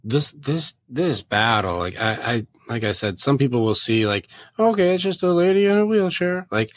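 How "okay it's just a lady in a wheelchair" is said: dismissive bystander. Retold or imitated. Mimicking people who underestimate her.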